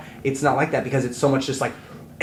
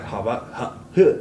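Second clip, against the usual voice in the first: breathy mumble noises. Shown as a demonstration. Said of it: "we're like".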